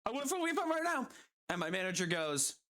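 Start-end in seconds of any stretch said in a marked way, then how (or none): 0.1-1.1 fast, rising mock-angry demand, pitch higher at the end; demanding Karen. Retelling how the customer demanded a refund, mock-angry and fast. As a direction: rattle it off like an entitled customer. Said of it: "And she goes".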